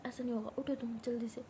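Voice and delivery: फुसफुसाते हुए ज़ोर देकर; firm whisper. Retold or imitated. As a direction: hush her, but insist. Jas urges her to get up. (पत्नी की फुसफुसाती, ज़िद्दी आवाज़)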